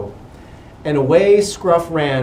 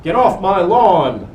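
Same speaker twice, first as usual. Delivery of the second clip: mild warning; 3 semitones higher, 5 dB louder than usual. A narrator's reading.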